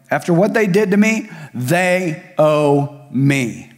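hammed-up resentful grudge; aggrieved grudge. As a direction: act out the wronged heart demanding payment. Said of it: "giveaway of unforgiveness".

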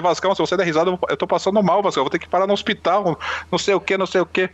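acted-out complaint, urgent and insistent; distressed pleading. Sick man to his laughing friend, distressed pleading.

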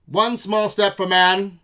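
slow, loud vintage broadcast voice; old-timey voice. Pretend. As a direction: intone it like an old newsreel. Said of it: "old-timey voice".

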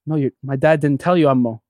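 low, hushed, deadpan mock menace; spooky mock threat. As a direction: drop the voice to spook the uncle. Messing with uncle, spooky claim.

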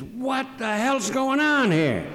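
high, drawn-out incredulous cry; astonished outburst. Retold or imitated. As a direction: imitate a man thrown by shock, pitch leaping way up. Retelling Ellis's shock at nomination.

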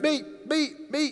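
high, keen "me, me"; a hand shooting straight up; eager volunteering. Acted. Isaiah answering God, high and eager.

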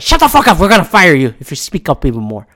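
mock Amazon silencing staff; mock corporate threat. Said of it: "Amazon said".

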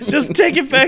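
high, loud angry shout; heated yelling. Retold or imitated. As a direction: fling the words at her. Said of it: "I got real heated with her".

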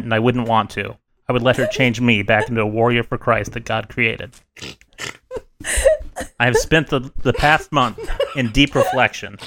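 a lightly solemn prepared statement read aloud; mock formal statement. Opening the podcast with a mock suspension statement, lightly solemn. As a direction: read it like a grave apology, barely playing it up.

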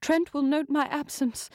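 breathless lady fearing her husband notices; breathless urging. Acted. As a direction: hurry him along breathlessly. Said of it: "the woman urged breathlessly".

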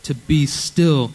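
"be still" drawn out slowly, then "and know that I am God" at normal pace; slowed on still. Shown as a demonstration. Pastor lingering on "be still" for the youth, slow and deliberate. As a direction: stretch "to be still" slowly so it sinks in. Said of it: "the first part is to be still".

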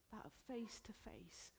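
whisper. Real, not acted. Intimate hushed phrase.

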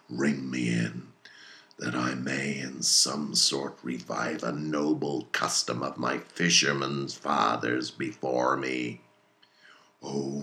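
put-on a fierce old sea captain rallying his crew; commanding, hammy captain with bursts of loud toasts; Captain Ahab voiced. Ahab to his mates and harpooneers, commanding and fierce.

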